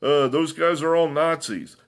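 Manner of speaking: high, loud parroting of "fascists"; sarcastic mimicry of the left; mocking opponents. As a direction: ham up the shrill accusers. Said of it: "This rhetoric where".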